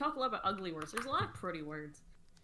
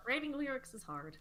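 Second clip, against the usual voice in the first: higher, put-on whine about lyrics; mock whiny voice; 6 semitones higher than usual. Shown as a demonstration. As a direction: whine it like a sulky kid.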